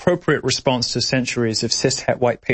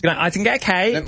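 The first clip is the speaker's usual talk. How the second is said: nasal demo; 5 semitones higher than usual. Shown as a demonstration. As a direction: talk through the nose with "cake" nasal. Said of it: "you gotta speak from your nose".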